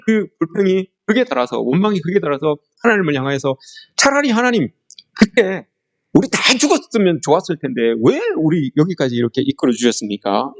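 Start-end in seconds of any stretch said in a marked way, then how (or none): 4.0-10.5 resentful complaint. Retold or imitated. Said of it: "이렇게 원망을 하는 거예요".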